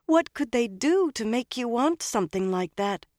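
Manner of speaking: put-on high, appalled young woman; horrified. A narrator's reading. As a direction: ask in horrified disbelief. Elaine horrified, continuing.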